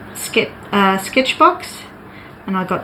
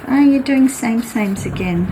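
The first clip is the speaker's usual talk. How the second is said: mock telling off; 4 semitones higher than usual. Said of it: "Kim would tell me off".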